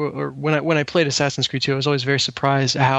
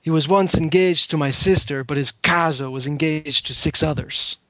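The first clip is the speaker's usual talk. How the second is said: put-on Italian accent. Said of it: "I'll see if I can do the voice for it as well".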